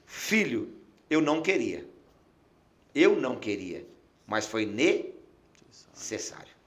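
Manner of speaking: low, soft and slow, with pauses; voice of the Spirit. Retold or imitated. God answering the grieving pastor, low gentle voice. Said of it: "o Espírito falou".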